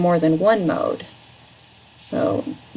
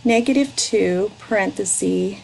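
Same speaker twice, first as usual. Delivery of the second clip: slow, word by word dictation; dictating; slower than usual. Shown as a demonstration. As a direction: spell out each term slowly. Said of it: "read it back to me".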